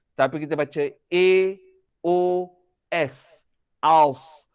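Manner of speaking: Aus with the a rounded toward O; o-coloured vowel. Shown as a demonstration. Teacher spelling out the O sound in Aus.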